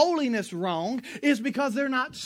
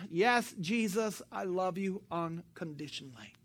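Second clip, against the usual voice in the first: Peter giving in; 6 semitones lower, 10 dB quieter than usual. Acted. Peter finally admits to Jesus he loves him, soft surrender. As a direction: give in quietly after a sigh.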